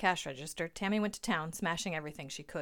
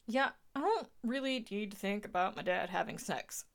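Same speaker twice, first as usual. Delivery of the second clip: irritated snap; snapping; 3 semitones higher than usual. A narrator's reading. Derek snaps at Tammy about his dad, irritated. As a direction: cut her off sharply. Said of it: "snapped Derek".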